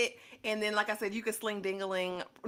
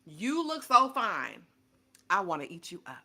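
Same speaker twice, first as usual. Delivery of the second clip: reading David's text. Retold or imitated. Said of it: "a text from David that says".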